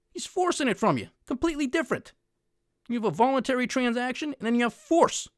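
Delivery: real indignation building toward the audience; getting heated. Real, not acted. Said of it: "I'm getting heated".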